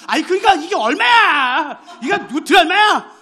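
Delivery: 답답해하며 크게 따지는 할아버지; 종업원에게 값을 재촉하는 할아버지의 외침; insistent shout. Retold or imitated. Grandpa shouting price again. (크게 따지듯)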